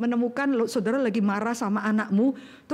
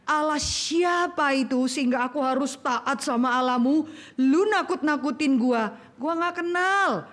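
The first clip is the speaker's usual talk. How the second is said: sneering Pharaoh; 3 semitones higher than usual. Acted. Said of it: "Bahasanya sekarang ya".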